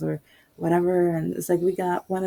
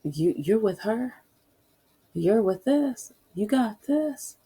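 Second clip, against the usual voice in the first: mock sneer rising higher, slower; a hint of a contemptuous officer; sneering cop; 3 semitones higher, slower than usual. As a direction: scoff at her like a sneering cop. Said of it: "And he was like".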